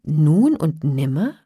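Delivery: slow, loud questioning; feigned concern. A narrator's reading. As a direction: ask slowly, pretending to worry about him. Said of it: "tat, als ob sie um ihn besorgt sei". (gespielt besorgt)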